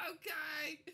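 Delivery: high, dopey ogress reply; dim ogress agreement. Acted. Female ogre agreeing to help kill the party. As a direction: agree slowly like a dull ogress. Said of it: "He's like".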